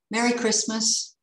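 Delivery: calling out. A narrator's reading. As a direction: call out the greeting lightly. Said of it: "he called".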